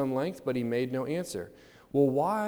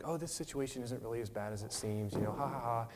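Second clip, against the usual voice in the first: softly mocked false cheer with a fake "ha, ha, ha"; smiley pretending; 5 dB quieter than usual. Preacher imitating a Christian in denial, smiley pretending. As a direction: brush it off with a put-on smile. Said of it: "be the smiley Christian".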